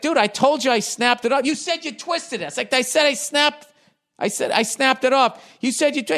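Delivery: high, pushed voice, insisting he was told; exasperated retort. Retold or imitated. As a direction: replay yourself arguing back, fed up. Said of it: "I was like".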